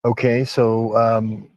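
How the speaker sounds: winded, out of breath after a climb; catching his breath between words. Real, not acted. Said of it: "sorry about being out of breath".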